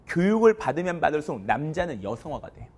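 usual speaking voice

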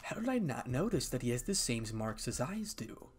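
a mild stage murmur, as private thought; whispering to herself. Acted. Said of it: "she whispers to herself".

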